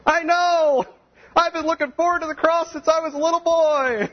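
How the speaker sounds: sarcastic high squeal of fake enthusiasm; sarcastic Peter. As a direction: ham up a falsely eager Peter. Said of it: "What's Peter say?".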